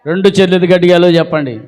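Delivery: forceful prompt. Real, not acted. Preacher asking the congregation again for hallelujah, forceful quick call. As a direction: push the crowd to answer loudly.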